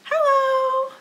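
high, sweet friendly hello; nice hello. Shown as a demonstration. Teacher ending the game with kids, sweet hello. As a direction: greet them as kindly as you can. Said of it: "as nicely as we can".

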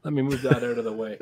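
muffled, boxy, like inside a metal tank; tin can sound. Real, not acted. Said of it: "you sound like you're in a tin can".

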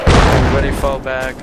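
loud urgent retreat order; shouting orders over battle. Real, not acted. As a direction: bark the retreat order, then drop. Ordering retreat under mortar fire.

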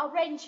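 orange with an 'ay' vowel in the second syllable; wrong A sound. Shown as a demonstration. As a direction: end orange like 'range', with a long A. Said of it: "Âm này không phải là âm A".

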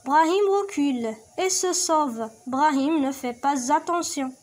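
slow, clear read-aloud; slow teacher reading; reading aloud to pupils. Shown as a demonstration. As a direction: read the text slowly for the class. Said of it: "تبعوا معايا".

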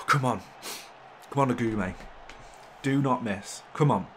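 loud, pressing come ons; will the player to score; real loud encouragement; urging. Real, not acted. Urging his penalty taker.

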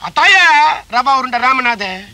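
slow grand self-announcement; villain announcing his name; villain name intro. Acted. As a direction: slowly roll out the name. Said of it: "எக்கோல சொன்னா".

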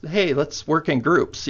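high, slow, singsong teacher voice; mock cheery teacher. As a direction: imitate a chirpy teacher assigning groups. Mimicking school teachers' group instruction.

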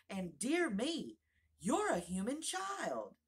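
loud, slow, delighted cry. A narrator's reading. Fawn cries out to Alice in delight. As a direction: burst out with joy at being a fawn. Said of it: "it cried out in a voice of delight".

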